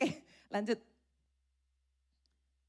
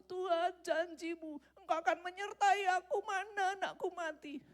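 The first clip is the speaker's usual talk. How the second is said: bereaved parent complaining to God, higher; accusing God; 9 semitones higher than usual. Acted. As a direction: cry out against a broken promise.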